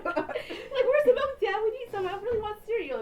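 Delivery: put-on high slow whiny kid voice.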